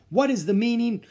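high, loud stern demand; angry teacher demanding answers loudly; shouting teacher. Acted. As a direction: bark the question at the boy. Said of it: "shouted for silence".

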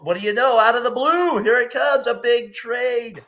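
high, loud breaking-news hype; excited. Real, not acted. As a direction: build it up like big news.

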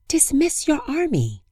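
high, firm sun voice; commanding sun voice. Acted. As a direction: order like the radiant sun. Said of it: "said the sun".

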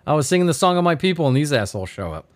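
inquisitive parrot. Retold or imitated. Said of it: "super inquisitive".

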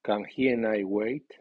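"he" and "I" fully accented, not contracted; strong stress on pronouns. Shown as a demonstration. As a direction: keep "he" separate from "Can" and stress it. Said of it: "pero lleva acento fuerte si es sujeto múltiple".

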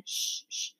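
whispered shush; soothing shush. Acted. Father calming sobbing Jess, whispering. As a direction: hush him gently.

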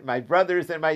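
lightly sung-out repeat of the address, a hint of a singer's style; a singer's style. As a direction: echo the crowd greeting, gently hammed. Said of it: "sounds like a singer over here".

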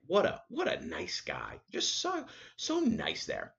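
very high, soft gushing; high soft praise; gushing falsetto. Real, not acted. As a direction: gush about him in a squeaky high voice. Gushing about nice guy.

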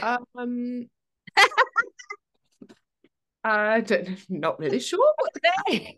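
high, stretched-out mock uncertainty; hammed-up awkward hesitation; acted stumped reply. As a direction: flounder for an answer, voice climbing. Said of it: "I'm like".

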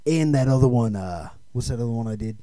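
lightly voiced tough-guy film star; action movie star. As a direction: play a halting, self-important action star.

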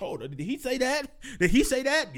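lightly acted astonishment; mock disbelief. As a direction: imitate parents who can't believe their ears. Other parents react in disbelief.

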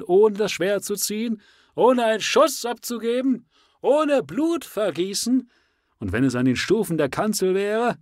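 high, loud zealous leader; rally the exiles with burning zeal; fiery preacher. Acted. Endicott's rising speech.

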